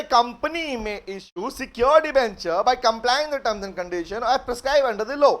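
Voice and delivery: slow, deliberate legal reading; slow provision reading. Shown as a demonstration. Teacher reads the secured debenture rule slowly to students. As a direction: read it out clause by clause. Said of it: "reading करते हैं".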